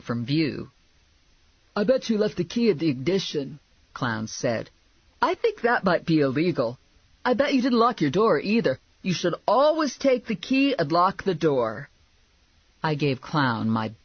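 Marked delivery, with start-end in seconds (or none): 1.7-3.6 higher-pitched, chiding character voice; chiding sidekick. A narrator's reading. Sidekick to bounty hunter whose car was stolen, chiding. 5.2-11.9 higher-pitched, know-it-all character voice; chiding lecture. A narrator's reading. Sidekick to bounty hunter whose car was stolen, lecturing.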